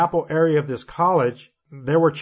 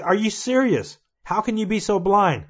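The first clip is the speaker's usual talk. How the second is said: mildly heated, raised-pitch challenge; retold confrontation; 4 semitones higher than usual. Dreamer in the professor's face, mildly indignant. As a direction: confront him with indignant questions, without shouting. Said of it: "So I got in his face".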